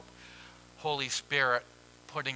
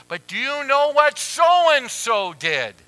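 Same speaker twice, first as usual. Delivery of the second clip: louder, higher, slow accusation; mock outraged complaint; indignant; 12 semitones higher, 13 dB louder, slower than usual. Churchgoer complains to God about so-and-so, loud and indignant.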